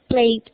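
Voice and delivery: "Played" as one syllable, "pleid"; Y as I, final D. Shown as a demonstration. Teacher explains verbs ending in Y, "Played" said "pleid". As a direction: glide through "Played" to a closing D. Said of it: "la Y se pronuncia como una I".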